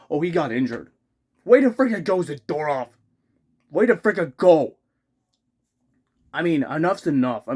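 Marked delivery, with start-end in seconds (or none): 1.4-4.8 sarcastic. Real, not acted. Sarcastic jab at player.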